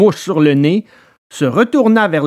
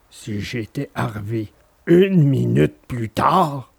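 lower, slow easygoing dog voice; calm dog musing; 4 semitones lower than usual. Acted. Alidor musing on arriving late, low calm dog voice. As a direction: muse on it lightly, unconcerned. Dog's version of the line.

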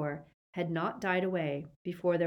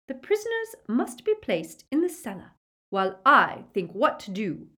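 high-pitched, urgent command; imperious order; 7 semitones higher, 6 dB louder than usual. A narrator's reading. Witch orders her sister to hold prisoners, high imperious command. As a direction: order it high, louder at the end.

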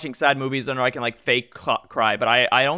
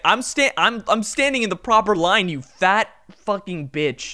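louder and higher, furious; angry rant; 4 semitones higher, 3 dB louder than usual. Retold or imitated. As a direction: rant at her in rage. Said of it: "I was so unbelievably angry".

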